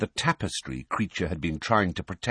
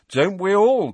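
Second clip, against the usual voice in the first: sarcastic retort; 13 semitones higher, 8 dB louder than usual. Acted. Twin mocks the elf.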